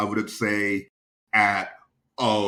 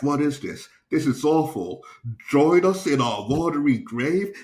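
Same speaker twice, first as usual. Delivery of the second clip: higher, louder mock dismay; acted disbelief, pitched up; wife reading aloud, appalled; 5 semitones higher, 4 dB louder than usual. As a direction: imitate an appalled wife reading a bad joke. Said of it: "wife is reading these jokes".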